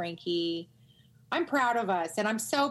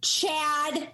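mock calling out Chad; 8 semitones higher than usual.

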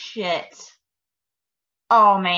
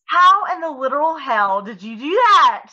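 higher, astonished demand; incredulous; 5 semitones higher, 3 dB louder than usual. Real, not acted. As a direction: blurt it out in disbelieving amazement. Stunned by the birthday video.

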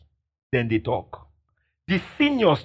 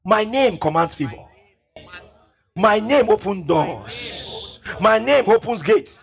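loud declaration; 4 semitones higher than usual. Shown as a demonstration. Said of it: "Say aloud".

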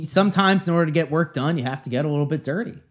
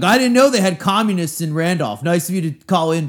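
higher, louder mock comeback to a caller; Chris Christie; 4 semitones higher, 4 dB louder than usual. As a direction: needle the caller like a radio host. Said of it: "Chris Christie's really into".

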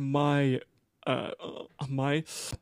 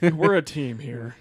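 laughing; 5 dB louder than usual. Real, not acted. Laughing while reassuring friend.

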